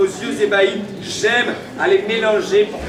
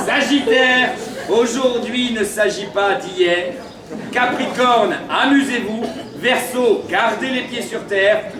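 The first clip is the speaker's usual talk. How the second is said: town crier. Acted. Announcing horoscope messages.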